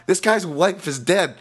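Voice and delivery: high, loud and slow, hammering it home; outraged climax of the rant; exasperated shout. Real, not acted. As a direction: make them finally get it. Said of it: "That is my rant".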